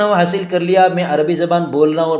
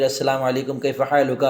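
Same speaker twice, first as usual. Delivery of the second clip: sample Arabic small talk; 4 semitones lower than usual. Shown as a demonstration. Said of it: "جب آپ عربی میں بات چیت کریں گے".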